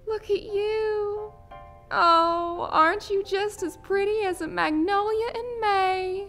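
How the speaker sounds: high, loud Southern gushing; delighted belle, swept up in fairy-tale dreams. Acted. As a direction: coo excitedly in a high Southern drawl.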